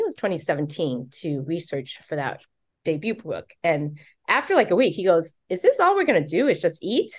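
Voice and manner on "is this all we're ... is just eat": high, incredulous complaining voice; whiny husband. Retold or imitated. Author mimicking her husband's high whine about only eating. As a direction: sound like a bored tourist pleading to go see things.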